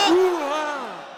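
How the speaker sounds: loud, high battle cry; loud gung-ho soldier. Acted. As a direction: shout it like a soldier rallying. Crowd battle cry led.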